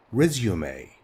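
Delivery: "Resume" said rez-yoo-may, calm and clear; repeated model word. Shown as a demonstration. Teacher repeats "Resume" as rez-yoo-may for students. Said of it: "we say resume".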